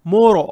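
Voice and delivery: मोरो dark and full, not thin; thick ra. Shown as a demonstration. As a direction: say मोरो with a rounded, heavy r. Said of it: "रॉ को मोटा पढ़ेंगे".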